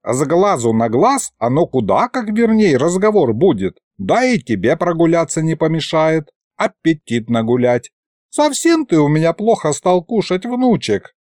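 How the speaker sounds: a hint of a chiding, fond grandad; fussing grandfather. Grandfather lecturing his grandson, mildly fussing.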